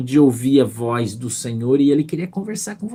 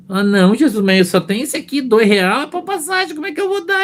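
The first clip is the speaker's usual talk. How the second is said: whiny pleading; 9 semitones higher than usual. Retold or imitated. Arguing with Jesus over offering.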